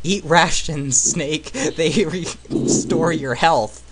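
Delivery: gruff game hero voice, slow; Solid Snake voice. Retold or imitated. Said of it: "my terrible Solid Snake voice".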